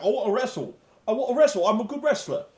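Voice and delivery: hammed-up childish insistence; mock petulant demand. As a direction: parody a sulking wrestler, pushing harder each time. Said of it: "I was like".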